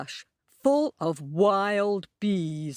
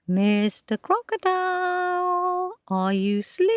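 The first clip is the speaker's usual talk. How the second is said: high, a little louder rabbit call; a touch louder, still careful; louder whisper; 11 semitones higher than usual. A narrator's reading. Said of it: "whispered again, a bit louder".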